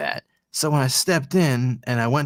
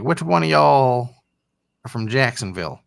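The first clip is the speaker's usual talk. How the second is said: put-on southern accent; 4 semitones higher, 5 dB louder than usual. Party girl asking the guys, light southern accent. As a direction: mimic the girl's cute southern accent lightly. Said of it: "she had the cutest accent".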